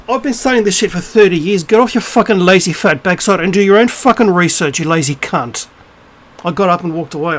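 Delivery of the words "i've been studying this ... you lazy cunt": retold angry retort. Re-enacts his angry retort.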